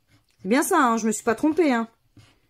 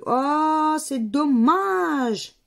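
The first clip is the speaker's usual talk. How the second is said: disappointed; 5 semitones higher, 3 dB louder, much slower than usual. Real, not acted. Losing scratch card, disappointed.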